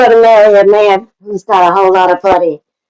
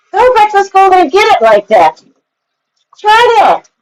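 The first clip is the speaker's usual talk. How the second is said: high mocking taunt; 8 semitones higher than usual. Real, not acted. Taunting during an argument.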